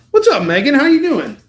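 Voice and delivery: high, booming shout-out; loud greeting. Real, not acted. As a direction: holler an exuberant hello. Calling out to a viewer.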